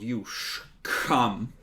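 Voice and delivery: put-on slurred drunken mumble; drunk slurring. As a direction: slur it like a town drunk. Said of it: "slurring his words slightly".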